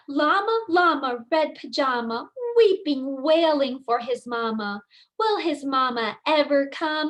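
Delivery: expressive storybook reading; singsong rhyming read-aloud; reading to children. Acted. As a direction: read it like bedtime story time for little kids. Teacher reads picture book aloud.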